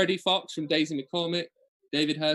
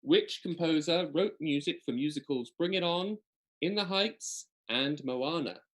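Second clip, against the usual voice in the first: higher-pitched listing, slowing on the last title; quiz question read-out; 3 semitones higher than usual. Acted.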